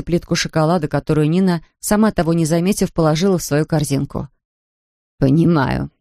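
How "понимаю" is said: put-on slow, lower voice of an old village shopkeeper; a wary old woman weighing her words. A narrator's reading. Shopkeeper answers the stranger girl, slow and wary.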